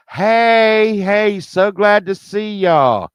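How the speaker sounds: high, drawn-out welcome voice; fake-friendly greeting. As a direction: greet them like a too-sweet hostess. Girl greets them from banister.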